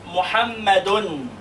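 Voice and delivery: MUHAMMADUN with a drawn-out "-dun" ending; tanween damm. Shown as a demonstration. Teacher shows pupils how tanween is pronounced, MUHAMMADUN with ringing N. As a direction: stretch MUHAMMADUN onto a held final N. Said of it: "مش أنا بنطق محمد كده".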